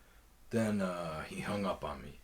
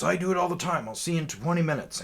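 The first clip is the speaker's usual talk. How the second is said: higher, louder, quick and careless; imitating the seller; 9 semitones higher, 6 dB louder, faster than usual. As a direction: breeze through it unbothered. Seller's reply voiced in story.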